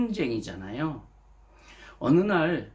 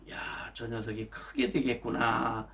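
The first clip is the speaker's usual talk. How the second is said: fond father musing; 3 semitones lower, 5 dB quieter than usual. Retold or imitated. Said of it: "이렇게 기대를 했겠지요".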